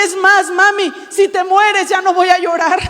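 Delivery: a touch of a son's joyful outburst; retold excited cry. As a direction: voice the son's relief, lightly.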